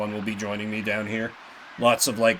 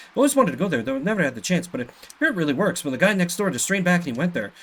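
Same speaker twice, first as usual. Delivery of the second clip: quick, lightly voiced village gossip; a chatty neighbour telling Pete's tale; voicing a chatty villager; 5 semitones higher, faster than usual. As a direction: rattle off the villager's story fast. Reads NPC dialogue aloud.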